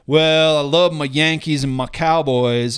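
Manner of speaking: lightly mocking buddy's fan routine; a hint of a slow, hammed-up brag; put-on fan act. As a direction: drag it out a little, poking fun at bandwagon fans. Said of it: "like, kinda act".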